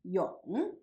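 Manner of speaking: Yong on a dipping tone; third tone. Shown as a demonstration. Teacher showing students Yong in the third tone. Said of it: "pronounced in the third tone".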